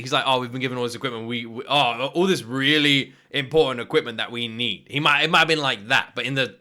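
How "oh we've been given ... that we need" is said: mock-earnest, leaning on "really important"; put-on sarcastic gratitude. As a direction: quote it with heavy sarcasm. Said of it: "He might have been being sarcastic".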